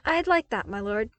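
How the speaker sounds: light up with delight; beaming. A narrator's reading. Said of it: "he nonetheless beamed in response".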